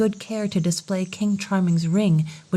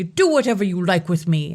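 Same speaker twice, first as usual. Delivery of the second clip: gaily. Acted. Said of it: "the king cried gaily".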